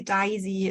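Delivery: Daisy said as "Dye-zy"; open face vowel. Shown as a demonstration. Lecturer reading Cockney song lyrics, open face vowel. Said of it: "again the open face vowel".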